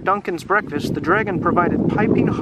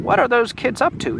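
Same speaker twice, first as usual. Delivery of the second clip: lightly put-on funny voice, higher; Menzie's funny voice; 6 semitones higher than usual. Reader voicing Menzie puzzling over the kids, lightly funny voice. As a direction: wonder aloud in a mildly comic character voice. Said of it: "Menzie has a funny voice".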